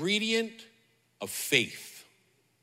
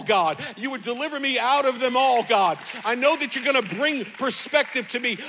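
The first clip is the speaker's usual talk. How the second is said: bold prayer; 2 semitones higher than usual. Pretend. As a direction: square your shoulders and call out to God. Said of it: "square your shoulders and say".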